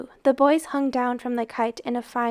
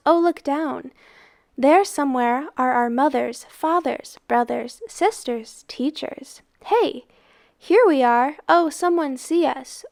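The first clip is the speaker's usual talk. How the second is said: excited call; 3 semitones higher, 3 dB louder than usual. Acted. Boys call to families below.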